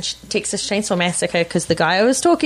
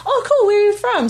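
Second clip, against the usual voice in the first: laughing high quote; 13 semitones higher than usual. Retold or imitated. Quoting the Kiwi woman, laughing.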